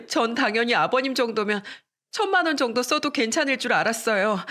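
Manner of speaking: whiny, teary plea, voice pitched high; fake crying. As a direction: play the victim to father-in-law. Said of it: "울기 시작하는 게 아니겠어요".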